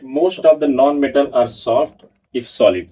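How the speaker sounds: slow note dictation to a class; dictating notes. Acted. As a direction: read it out slowly so students can write.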